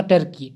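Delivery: टर्की as "TER-kee", with an "er" vowel; correct English pronunciation. Shown as a demonstration. Teacher gives students the English form, टर्की pronounced "ter-kee". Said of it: "इसका शुद्ध उच्चारण दोस्तों होगा".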